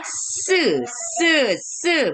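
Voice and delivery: "Se" with a hard, tense double s; "se" repeated separately, the s pressed hard; rather hard s. Shown as a demonstration. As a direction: hit each "se" with a strong hissed s. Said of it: "Jadi ini agak keras ya".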